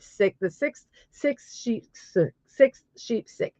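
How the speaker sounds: careful, choppy tongue-twister delivery; tongue twister recital. Shown as a demonstration. Streamer attempting the hardest English tongue twister, careful and choppy. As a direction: pick through each word of the twister separately.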